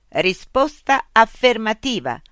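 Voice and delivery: slow, loud mechanical reply; robot policeman. A narrator's reading. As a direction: answer like a machine, high and measured. Robot policeman answers officially.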